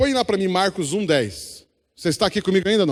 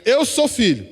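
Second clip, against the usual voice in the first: louder, higher, declared with conviction; 5 semitones higher, 4 dB louder than usual. Shown as a demonstration. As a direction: proclaim "Eu sou filho" with full conviction, stress on "sou". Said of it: "agora você vai falar assim com vontade".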